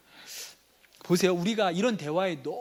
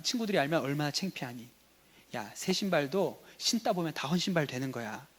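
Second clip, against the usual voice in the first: lower-keyed fatherly reasoning, acted; persuading kind father; 3 semitones lower than usual. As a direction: play a dad patiently talking his son round. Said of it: "친절하게 아들을 설득하려는 아버지가 이렇게 얘기합니다". (아들을 타이르는 아빠 연기)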